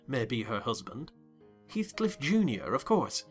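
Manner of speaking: ordinary delivery, nothing marked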